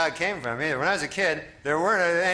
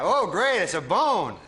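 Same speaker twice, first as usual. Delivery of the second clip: sarcastic dog voice; 2 semitones lower, slower than usual. Retold or imitated. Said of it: "the dog's like".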